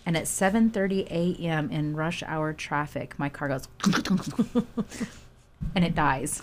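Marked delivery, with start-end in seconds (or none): 3.7-5.1 mimicked dying engine noise; sputtering engine sound made by mouth; imitated car sputter. Driver retelling how the old clunker died, imitated sputter.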